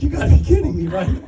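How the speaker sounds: hammed-up you-can't-be-serious, pitched well up; disbelief. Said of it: "I'm like".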